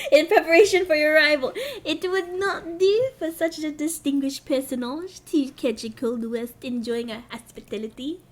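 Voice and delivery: tentative mock French accent; attempted French accent. Streamer voicing welcoming lord, attempted French accent. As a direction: try a shaky-grasp French accent. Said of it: "should he be French?".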